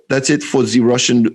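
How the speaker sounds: German-tinged mock Russian accent; botched Russian accent. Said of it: "I went German too".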